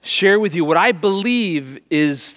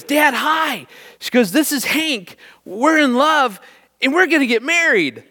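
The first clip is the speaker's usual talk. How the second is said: put-on high, excited five-year-old girl gushing; little daughter's voice; 8 semitones higher than usual. Dad hears his daughter gush about her new boyfriend, high and giddy. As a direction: squeal it like a kid announcing her first love. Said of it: "Taylor yells out, she goes".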